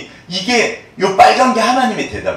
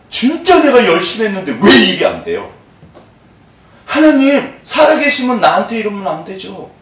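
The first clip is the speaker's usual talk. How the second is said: 하소연 흉내; 4 semitones higher, 3 dB louder than usual. Retold or imitated. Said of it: "문대철 씨가 하신 말씀이요".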